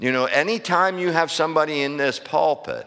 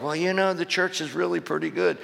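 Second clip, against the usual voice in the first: higher-pitched quote of easygoing folks; folks' casual claim; 6 semitones higher than usual. Retold or imitated. Preacher quoting churchgoers who think all is well, mildly mocking folks' voice. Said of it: "folks are like".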